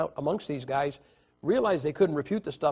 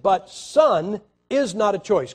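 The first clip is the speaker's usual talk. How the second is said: slow, loud, higher challenge; mock-triumphant retort; 4 semitones higher, 6 dB louder, slower than usual. Preacher mimicking the scholar's gotcha line to the host. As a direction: stress IS, hammered home slowly. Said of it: "He said".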